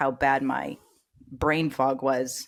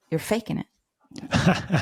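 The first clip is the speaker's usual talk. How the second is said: slow, deliberate doctor's verdict; slow blunt verdict; 2 semitones higher, much slower than usual. Retold or imitated. Mentor telling patient she's faking, slow and blunt. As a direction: drag each word out, flat and certain. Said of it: "first thing he says to me".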